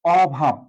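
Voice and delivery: অভাব with a clear open ɔ; open o sound. Shown as a demonstration. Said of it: "যে দেশে অভাব হয়েছে".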